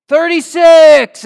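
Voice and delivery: long, drawn-out shout across the cell block; inmate calling out. Retold or imitated. A prisoner shouting a joke number to the cell block, drawn-out yell. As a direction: bellow the number slowly. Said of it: "then he hears".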